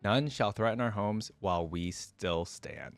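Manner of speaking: measured storytelling read; steady audiobook narration of a fantasy tale; story narration. A narrator's reading. Reads the story aloud.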